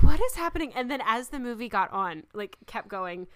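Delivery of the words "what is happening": loud, high mock bewilderment; baffled outburst. Viewer retells reacting to a strange accent, loud bafflement. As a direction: blurt it out, utterly baffled.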